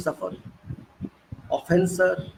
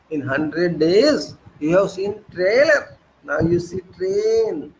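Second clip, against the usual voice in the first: quoting the Prime Minister; slower than usual. Retold or imitated. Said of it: "Prime Minister's statement".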